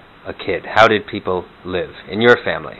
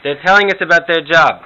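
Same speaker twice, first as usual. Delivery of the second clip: Jewish grandma Herta; 6 semitones higher than usual. Pretend. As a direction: play a hard-of-hearing Jewish bubbe. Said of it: "some Morty and Herta imitations".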